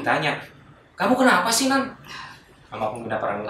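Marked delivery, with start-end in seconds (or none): 1.0-1.9 concerned questioning. Retold or imitated. Scout leader questions the revived student.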